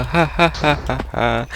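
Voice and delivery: relieved laughter. Real, not acted. Laughing after surviving attack.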